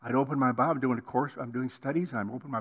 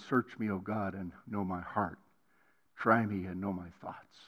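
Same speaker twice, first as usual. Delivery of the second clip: quiet reverent psalm quote; 8 semitones lower, 6 dB quieter than usual. Retold or imitated. Quoting David's psalm prayer.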